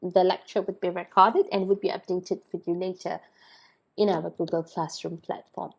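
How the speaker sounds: hoarse, still recovering voice. Real, not acted. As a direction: talk through a hoarse throat. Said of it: "ignore my, my hoarse voice".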